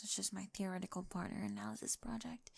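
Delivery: soft embarrassed whisper; whispered aside. Acted. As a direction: whisper it as if confessing a secret. Nervous confession in childhood bedroom.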